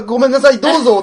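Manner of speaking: high, loud mock-frightened apology; scared child. Imagining a child she approached, laughing mock-scared apology. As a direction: play a cowed child handing it over. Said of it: "そら怖いよ".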